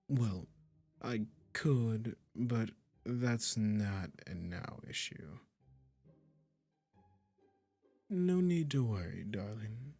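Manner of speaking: slow, drawn-out coaxing with lingering pauses; lightly hammed-up sweet, condescending captor; doting, possessive magician. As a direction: coo smugly to your new pet kitty. Magician soothing listener turned cat.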